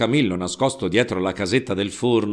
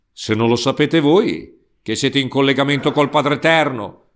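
louder, higher angry outburst; shouting; 3 semitones higher, 3 dB louder than usual. Acted. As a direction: throw it back at the priest. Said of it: "gridò Peppone".

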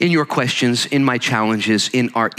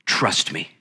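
confident; 2 semitones lower than usual. Retold or imitated. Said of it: "with confidence and say".

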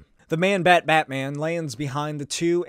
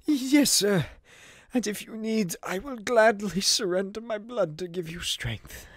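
higher, softer devoted butler; softly offering Alfred; 5 semitones higher, 3 dB quieter than usual. Acted. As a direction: offer your blood quietly.

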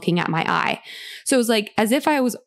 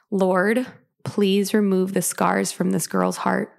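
a calm, reverent plea; gentle prayer; slower than usual. Retold or imitated. Healer praying over her, slow and reverent. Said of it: "I remember her saying this sentence".

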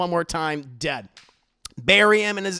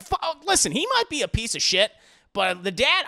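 higher, louder worked-up rant; getting fired up about the dad; excited reaction; 5 semitones higher, 3 dB louder than usual. Retold or imitated. Podcaster hyping up his own take, mock outrage.

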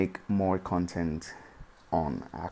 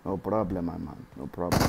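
put-on Dominican accent. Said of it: "we using the Dominican accent today".

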